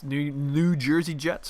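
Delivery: "New Jersey Jets" slow and drawn out on purpose; teasing, slowed "New, New Jersey Jets"; pointed New Jersey. Shown as a demonstration. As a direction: lean on "New Jersey" to needle the fans. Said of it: "for those who hate me saying New Jersey Jets".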